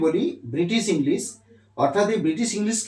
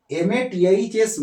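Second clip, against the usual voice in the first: slow spelling out; 4 semitones higher, much slower than usual. Shown as a demonstration. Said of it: "এটা British English".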